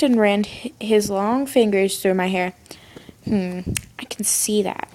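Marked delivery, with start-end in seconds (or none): 3.2-4.9 soft whisper. A narrator's reading. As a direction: murmur it softly. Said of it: "he whispered".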